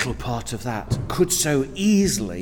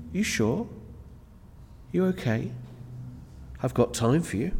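softer, caring check-in; gentle concern; 10 dB quieter than usual. Retold or imitated. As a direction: ask gently, making room for them. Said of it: "You need to say".

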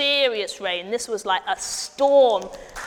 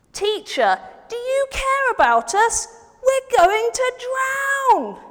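higher, loud and slow panicked plea; frightened plea; 11 semitones higher, 4 dB louder, slower than usual. Acted. Friend begging Jesus for help in the storm, panicked slow shout. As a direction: beg the teacher for help as if drowning. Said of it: "the friend went to find Jesus and said".

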